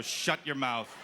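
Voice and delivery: mock-stern shut your mouth, stress on your; a relished, flat order, "your" leaned on; stern hush. Shown as a demonstration. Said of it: "very therapeutic to look at a little person and go".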